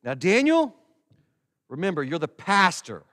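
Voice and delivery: lightly voiced wife reminding him; a hint of a chiding wife; wife's gentle warning. Wife reminding pastor husband Daniel, mild chiding voice. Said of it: "she has to often do with me is say".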